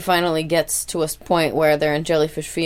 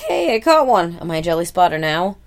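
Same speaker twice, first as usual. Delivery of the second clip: excited; 4 dB louder than usual. Retold or imitated. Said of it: "he's like".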